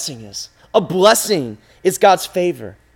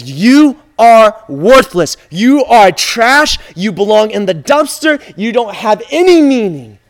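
loud, drawn-out condemnation; harsh accusing; 6 dB louder than usual. Acted. Sin telling you what you are, harsh accusing. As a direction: hammer each insult home, louder.

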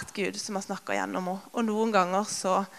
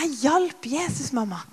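put-on proud child; 5 semitones higher than usual. Mother voicing her proud daughter.

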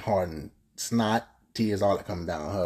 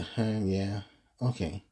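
dismissive side talk; 4 dB quieter, much slower than usual. Retold or imitated. A woman giving her date short answers, imitated as mildly dismissive. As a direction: mutedly imitate someone barely engaging. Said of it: "give me the little side talk".

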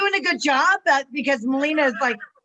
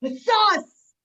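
Mickey impression; 7 semitones higher than usual. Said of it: "it's like when she does".

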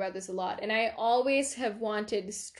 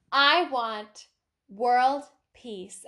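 confident answer, a little raised; confident pageant contestant; 2 semitones higher, 4 dB louder, much slower than usual. Acted. Pageant model answers the host's question, confidently. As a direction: declare it with pauses, like a contestant. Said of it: "confidently says".

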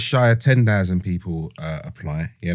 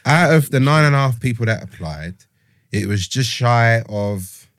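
geezer voice. Pretend. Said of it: "the kind of geezer voice".

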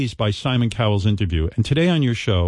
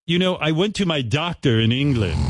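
lightly voiced Simon Cowell; 6 semitones higher, slower than usual. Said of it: "reenactment of Simon Cowell's interview".

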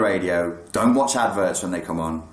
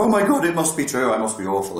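higher start, falling away as the alarm plays out; retold panic; 4 semitones higher, 3 dB louder than usual. Sufferer reacting to an intrusive thought, mock panic. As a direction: act out a sudden jolt of self-doubt. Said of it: "the adrenaline spikes off".

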